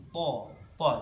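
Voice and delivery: "Po" loud, as a heavy emphatic t; thick, firmly blocked t in "Po"; thick, held sound. Shown as a demonstration. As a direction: stop breath and sound on "Po". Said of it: "cara pengucapannya itu tebal".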